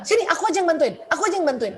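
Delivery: a hint of a keen little helper; eager child offering help. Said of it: "Dan selalu bilang".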